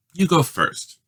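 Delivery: bright offer. A narrator's reading. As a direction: hand him the dice brightly. Judy hands brother the dice.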